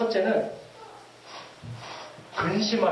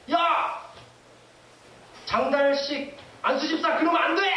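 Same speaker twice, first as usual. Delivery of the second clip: mock scolding call, higher pitched; stern warning; 4 semitones higher than usual. The Spirit rebuking a deacon, a mock stern shout. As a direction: scold him sharply like a rebuking parent. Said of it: "막 책망하시는 거예요".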